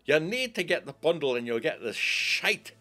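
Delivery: loud, high-pitched pushy seller; mocking sales pitch. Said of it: "They keep saying".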